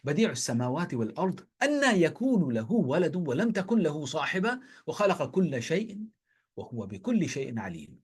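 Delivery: quick melodic recitation of the verse; Quran recitation. Shown as a demonstration. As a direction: flow through the verse in chant. Quotes Surah Al-An'am in Arabic.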